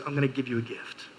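lightly voiced loving Jesus; tender Jesus voice. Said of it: "Jesus looks at us and goes".

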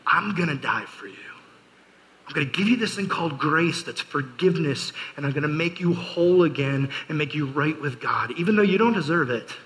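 lightly voiced loving Jesus; tender Jesus voice. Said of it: "Jesus looks at us and goes".

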